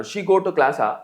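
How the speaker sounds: class-ఆ with a long "aa" tacked on; Telugu-style question. Shown as a demonstration. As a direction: add a drawn-out "aa" after class-ఆ. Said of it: "ఆ లాస్ట్లో".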